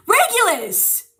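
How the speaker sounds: slow, high call of the name; high, drawn-out exclamation. Real, not acted. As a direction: stretch out the name in exasperation. Calling out a chat user.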